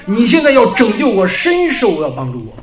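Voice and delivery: re-enacted plea, rising loud and high, then slowing; urgent prayer. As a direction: imitate a pressing cry for help in prayer. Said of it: "我就在那地方迫切的祷告".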